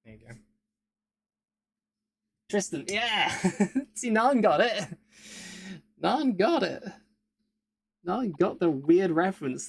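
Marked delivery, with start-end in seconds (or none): 2.5-9.7 high, loud delighted cheer; thrilled someone got the joke; excited. Real, not acted. Excited that Nan got reference.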